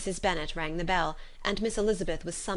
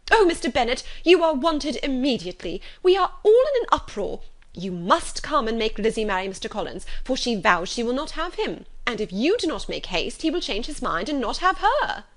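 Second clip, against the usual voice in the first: much higher and louder, a frantic wife bursting in; calling out; 6 semitones higher, 6 dB louder than usual. A narrator's reading. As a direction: cry out for your husband in a panic. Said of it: "called out as she entered the library".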